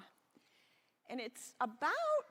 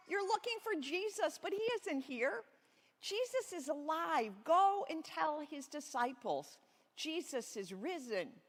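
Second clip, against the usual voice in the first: higher, slow announcing angel; angel's voice; 6 semitones higher than usual. Acted. Angel telling the women at the tomb, high and slow. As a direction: proclaim it gently from on high. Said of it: "the angel said".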